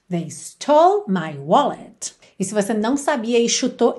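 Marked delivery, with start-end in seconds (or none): 0.1-2.1 slow repeat, lower; repeat model. Shown as a demonstration. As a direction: repeat at learning pace. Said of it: "How would you say that in English?". (repetição devagar, mais grave)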